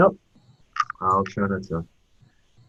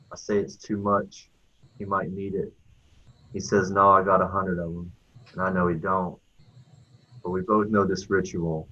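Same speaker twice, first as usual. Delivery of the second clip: storytelling poem read in measured phrases; cadenced recital of a narrative poem. Acted. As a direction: recite it line by line, with pauses between. Reads own poem aloud.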